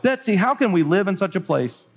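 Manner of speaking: a touch of despairing complaint; wailing. Acted. Corrie asks Betsy how to live here, mildly wailing. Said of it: "I wailed".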